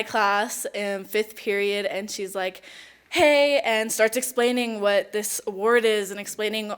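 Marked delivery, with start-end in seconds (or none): 3.1-3.6 retold greeting. Nominator greeting her in class, retold.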